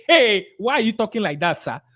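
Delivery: mock indignant comeback; rushed objection. Shown as a demonstration. Seller rushing to answer a client back, indignant. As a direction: jump in to challenge the client. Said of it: "Don't rush and say".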